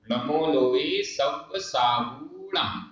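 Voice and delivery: mantra chanted very slowly; slow recitation. Shown as a demonstration. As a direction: recite each syllable long and even. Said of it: "recites mantra slowly".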